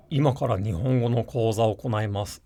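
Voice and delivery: low, chesty textured voice. Shown as a demonstration. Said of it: "I would speak like".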